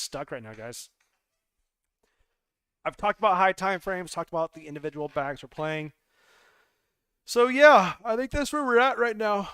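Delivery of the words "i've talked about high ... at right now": loud. Real, not acted. Voice jumps loud and high.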